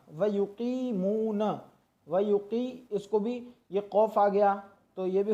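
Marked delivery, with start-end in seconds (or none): 0.1-1.4 युकीमून very slow with a heavy full-mouthed क़; full-mouth qaf. Shown as a demonstration. Teacher showing a heavy qaf. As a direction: say युकीमून slowly, fill the mouth on क़. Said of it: "पूर पढ़ना है".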